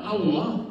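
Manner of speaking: Allah said as "aloh" with a rounded o; mock the over-Arabized Allah, aloh; overdone Arabic. Shown as a demonstration. Lecturer mocking people who over-Arabize, Allah as aloh. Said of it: "malah keliru ngomongnya Allah".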